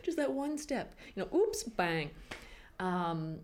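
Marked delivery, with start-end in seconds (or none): 0.0-2.1 laughing dark fantasy. Retold or imitated. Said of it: "I was just like".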